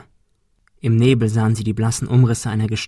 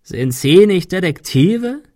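higher, slow mocking croak; hoarse villain taunts the detectives; 7 semitones higher, 5 dB louder, slower than usual. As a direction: croak it out scornfully. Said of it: "krächzte er".

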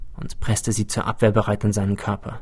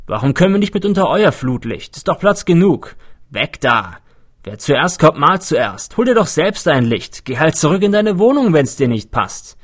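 raised, higher voices of people bickering over light; quarrelling crowd; 5 semitones higher, 4 dB louder than usual. A narrator's reading. Crowd members quarrelling over the floodlight, loud and high. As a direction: snap at each other over a spot in the light. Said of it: "Die meisten stritten sich um Licht".

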